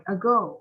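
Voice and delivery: "Ago" with GO stressed; stress on second syllable. Shown as a demonstration. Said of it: "Thì bạn nhấn âm nào vậy?".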